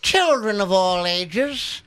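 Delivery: booming circus ringmaster welcome. Acted. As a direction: roll it out like a big top announcer. Ringmaster-style circus intro.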